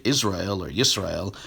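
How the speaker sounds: "Israel or Yisrael" as Hebrew, ending in -ah-EL; shown pronunciations. Shown as a demonstration. Lecturer cites the disputed word, Hebrew pronunciation. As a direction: give both "Israel" and "Yisrael", without and with opening Y. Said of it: "don't pronounce the relevant word".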